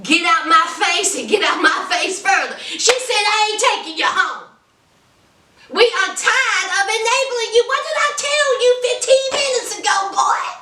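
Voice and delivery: mother scolding her begging son, rising. Retold or imitated. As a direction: shoo the grown son out, climbing in pitch. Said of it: "His mama said".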